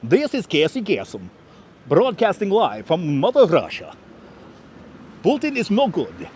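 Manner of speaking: announcer voice with a hint of Russian accent; Casey Kasem Russian accent. Streamer to chat, a light Russian-accented radio announcer. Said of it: "Casey Kasem style Russian accent".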